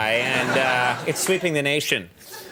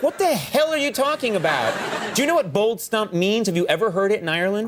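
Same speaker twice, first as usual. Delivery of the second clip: incredulous; 6 semitones higher than usual. Retold or imitated. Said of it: "And I was like".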